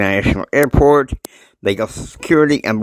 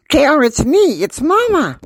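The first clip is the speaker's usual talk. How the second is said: much higher and louder mock mom call; loud mother; 4 dB louder than usual. Betsy calling J R from the car, loud high mock voice. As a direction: belt it out high like a mom on the phone. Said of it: "her voice is kinda loud".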